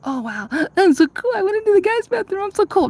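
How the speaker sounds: high, gasping mock pride; mock smug. Sneaking into the men's room, hammed-up smug delight. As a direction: ham up feeling so cool and rebellious. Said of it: "and you'd be like".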